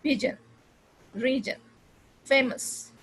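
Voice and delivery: पिजन, रीजन, फेमस with reduced last vowels; पिजन, रीजन, फेमस, each ending on a quick neutral vowel; quick schwa. Shown as a demonstration. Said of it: "बहुत ही quick श्वा sound है".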